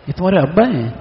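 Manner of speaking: "ابا" jumps up in pitch, then falls; questioning surprise. Shown as a demonstration. Preacher asking the child about his father, questioning stress on ابا. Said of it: "میں اس کو سوال بھی کر رہا ہوں".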